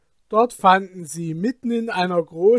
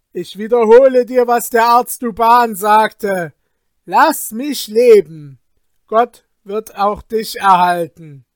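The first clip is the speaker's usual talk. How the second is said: louder, firm fisherman; emboldened fisherman; 3 semitones higher, 6 dB louder than usual. Acted. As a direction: stand up to the spirit bravely. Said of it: "fasste er aber wieder Mut".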